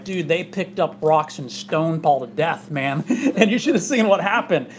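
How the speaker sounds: a lightly voiced, laughing mock Jewish accent, slowed at the start; half-hearted Jewish accent, breaking into a laugh. Pastor imitating Barnabas to the congregation in a light mock Jewish accent. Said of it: "that's my best Jewish accent".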